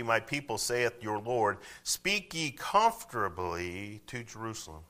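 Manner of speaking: tender reading. Shown as a demonstration. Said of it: "How do you speak comfortably?".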